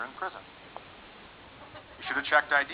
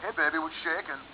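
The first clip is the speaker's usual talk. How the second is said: cocky sperm; 6 dB quieter than usual. Acted. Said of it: "swim up all cocky".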